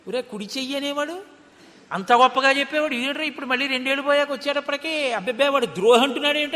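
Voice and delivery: chuckling as the baffled friend; amused mock disbelief. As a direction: laugh through the friend's thoughts. Imitating the puzzled friend's thoughts. (నవ్వుతూ ఆశ్చర్యం నటించడం)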